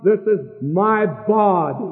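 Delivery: "This is my body" slow, leaning on "This"; slow phrase stressing "This". Shown as a demonstration. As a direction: draw out "This is my body" with weight on "This". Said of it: "put the emphasis upon".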